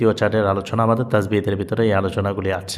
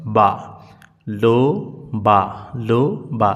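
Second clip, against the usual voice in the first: syllable drill; slower than usual. Shown as a demonstration. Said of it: "পরেরটার উচ্চারণ".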